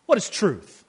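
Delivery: weary skeptic asking what truth is; lightly voiced Pilate, repeated twice; Pilate's question. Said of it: "You can almost hear Pilate's question".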